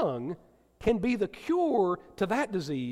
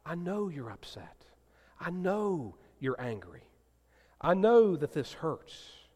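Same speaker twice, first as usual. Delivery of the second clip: gentle answer; 2 semitones lower, 5 dB quieter than usual. Shown as a demonstration. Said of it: "say things like".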